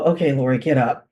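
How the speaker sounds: low, subdued talking to oneself; re-enacted weary resignation, understated; mildly resigned self-talk. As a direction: drop it low, like a reluctant morning pep talk. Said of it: "I'd take a deep breath and sigh".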